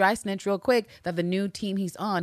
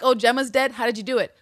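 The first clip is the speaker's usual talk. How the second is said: higher, louder eager questions; mock excited; 6 semitones higher, 6 dB louder than usual. Voicing the killer delighted by the news, mock eager. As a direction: gush with morbid curiosity. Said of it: "she'll be like".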